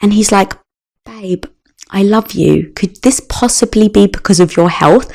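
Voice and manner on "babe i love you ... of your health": put-on softer, gently reassuring boyfriend; calm her down softly, like a loving partner; gentle reassurance. Husband gently calms crying partner.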